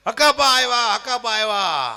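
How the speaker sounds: lightly hammed-up fan welcome; mock excited fan. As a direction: imitate the fan gushing the name twice. Fan repeats greeting.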